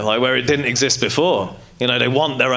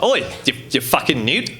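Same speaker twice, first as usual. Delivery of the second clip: bigoted Australian bloke calling someone out; mock Australian pub challenge; Australian accent. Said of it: "I just feel like the Australian accent".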